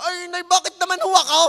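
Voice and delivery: put-on high, loud whining child talking back; a child's loud high complaint to his mother; whiny Batangueño child. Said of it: "ang sasabihin ng bata".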